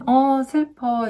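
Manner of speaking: high, slow play-acted sadness; pretend sad. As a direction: draw it out like a sad toy character. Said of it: "얘는 어떨까 마음이?".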